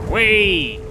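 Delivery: high playful whee; 1 gleeful whee. Real, not acted. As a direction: jump with glee. Jumping down gleefully.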